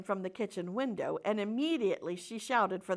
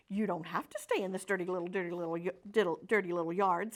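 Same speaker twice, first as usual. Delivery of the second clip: goose chattering quickly, tripping over words; fast-talking goose; 2 semitones lower, faster than usual. Acted. Goose hurrying to coax the pig out, fast chatter. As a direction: rattle it off like a hurried goose. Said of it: "who talked rather fast".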